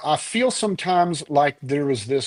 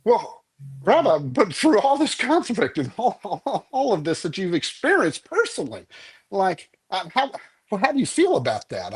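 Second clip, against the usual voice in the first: a touch higher, lightly voiced pestering reporter; pushy reporter; 5 semitones higher than usual. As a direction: press the old rabbi a bit higher and faster. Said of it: "the poor reporter's going".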